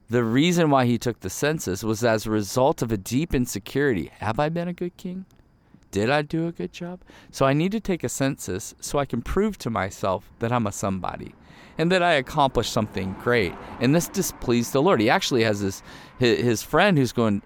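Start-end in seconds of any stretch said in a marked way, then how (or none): 4.2-13.5 lightly voiced insecure king, higher; a lightly voiced worried king; a hint of anxious David.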